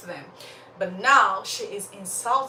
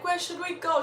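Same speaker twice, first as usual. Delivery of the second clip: put-on questioning child; 9 semitones higher than usual. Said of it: "And then Sorrow is like".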